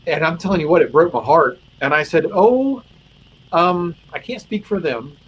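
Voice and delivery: emotional. Real, not acted. Chaplain retelling his heartbroken answer to the officer, emotional and high. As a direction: choke up as you retell it. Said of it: "I made it more emotional than I meant to".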